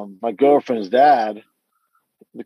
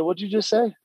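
high, breathy-free shocked question, pitched up; stunned disbelief; 8 semitones higher, 4 dB quieter than usual. Retold or imitated. Telling his niece what she said stunned him, shocked. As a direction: caught off guard, asking her to repeat.

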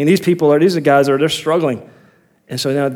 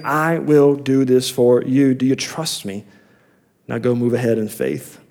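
softer, lower, reassuring voice; measured promise, easing down softer and lower; gentle reassurance; 4 semitones lower, 3 dB quieter than usual. Acted. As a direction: quietly reassure someone who is afraid. Voices God reassuring fearful David.

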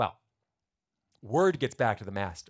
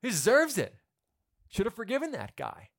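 much higher, loud gleeful approval; crowd cheering; 9 semitones higher, 9 dB louder than usual. Retold or imitated. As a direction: cheer like a satisfied audience. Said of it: "we in the original audience go".

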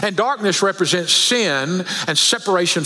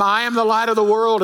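higher, mildly urgent mock prompt; insistent repeated prompt; 5 semitones higher, faster than usual. Mother trying once more to reach her daughter, raised and insistent. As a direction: imitate a prompter trying to get through. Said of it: "And one more time".

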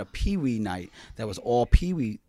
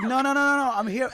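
mock flustered refusal; 5 dB louder than usual. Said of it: "I'm like".

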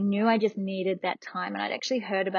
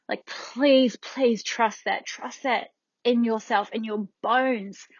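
slow, drawn-out heartfelt plea; earnest pleading; 3 semitones higher, 3 dB louder, slower than usual. Real, not acted. Urging women to trust their bodies, earnest pleading. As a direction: implore them, stretching each phrase.

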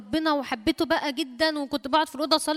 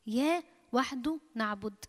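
إياه وحده نعبد again, softer and fading; soft repeat; 6 dB quieter than usual. Shown as a demonstration. Preacher softly echoes the declaration to the church.

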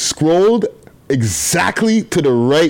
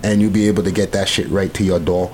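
commercial voice; 2 semitones lower than usual. Acted. Host giving listeners the delivery code, commercial voice. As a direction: spell out the code like an ad. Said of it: "get the commercial voice now".

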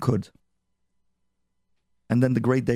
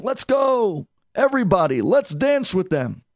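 high, loud rallying cry to get everyone up; excited calling out; 7 semitones higher, 3 dB louder, slower than usual. Acted. Hasid calling wedding guests to their feet, high and excited. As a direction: rouse the whole hall to dance.

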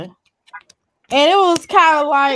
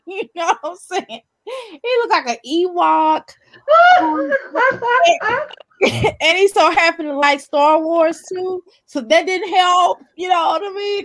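high, slow, laughter-strained voice; fighting through laughter; laughing; 5 semitones higher than usual. Real, not acted. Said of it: "trying not to laugh".

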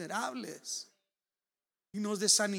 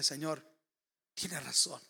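hushed prayer; 3 semitones lower, slower than usual. Retold or imitated. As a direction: pray it gently, adoringly. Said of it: "empiezo a decirle".

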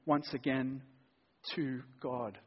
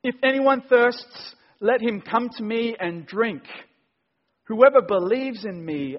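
cried out; 3 semitones higher, 10 dB louder than usual. A narrator's reading. Jesus crying out at the feast to everyone, loud and high. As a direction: call it out to the whole crowd. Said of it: "and cried out".

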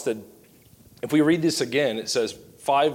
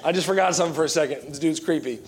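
mock nervous excuse; 2 semitones higher, faster than usual. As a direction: hurriedly make a pretend excuse to slip away. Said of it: "I'd be like".

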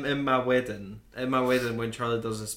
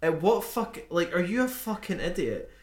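mock outrage; 6 semitones higher than usual. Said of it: "And I'm like".

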